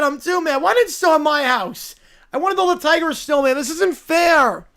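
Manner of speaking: stamp out the complaint like a brat; mad bratty kid. Acted. Angry kid protesting no snow, loud whine.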